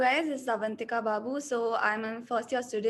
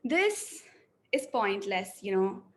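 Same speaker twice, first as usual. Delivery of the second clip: depressed, hopeless reading. Shown as a demonstration. Acting student reads the first version, depressed and flat. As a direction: let the lines sink with no hope. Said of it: "let me go with the first one".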